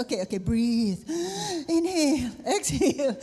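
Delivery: flustered, coaching own breath; shakily calming oneself down. Real, not acted. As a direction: talk yourself down, laughing. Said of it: "na-stress".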